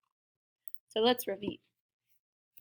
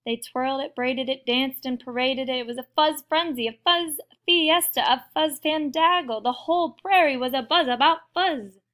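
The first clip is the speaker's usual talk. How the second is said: animated story narration; 3 semitones higher, 6 dB louder than usual. A narrator's reading. Reads picture book to children.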